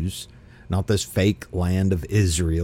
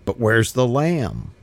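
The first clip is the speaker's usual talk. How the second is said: Isaac's voice; 6 semitones higher than usual. Acted. Isaac's question voiced in reading.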